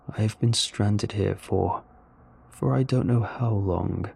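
slow, halting alien voice; lightly voiced alien, weary of waiting; stranded alien. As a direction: search slowly for the words as an alien. Story's alien speaks.

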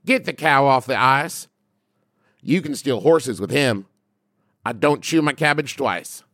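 put-on a touch of Appalachian accent; lightly voiced Appalachian accent. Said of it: "once again in an Appalachian accent".

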